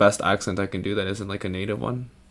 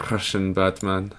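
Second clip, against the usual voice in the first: put-on Russian accent. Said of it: "Did you say Russian Batman?".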